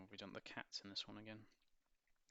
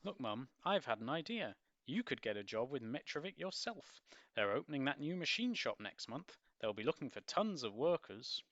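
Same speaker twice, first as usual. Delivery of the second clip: eager son; 5 semitones higher, 6 dB louder than usual. Acted.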